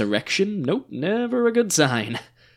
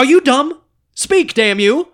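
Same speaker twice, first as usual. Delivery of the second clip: much louder and higher, snapping at his silence; frustrated outburst; 8 semitones higher, 7 dB louder, slower than usual. Acted. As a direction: lose patience and yell at him. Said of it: "Suddenly gets frustrated at Fascist's silence".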